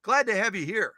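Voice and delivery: cheerful high welcome. Pretend. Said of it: "we can say".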